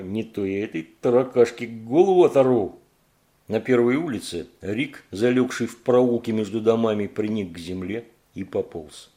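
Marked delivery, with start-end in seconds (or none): 0.0-2.8 loud snarling monster threat; menacing threat. Acted. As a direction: threaten to rip her head off. Monster threatens to rip head.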